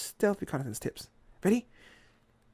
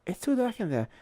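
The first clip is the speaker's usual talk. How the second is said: higher, louder character voice; squirrel lookout; 7 semitones higher, 7 dB louder than usual. Acted. Squirrel peering through binoculars, animated voice. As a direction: pipe up as the squirrel on watch.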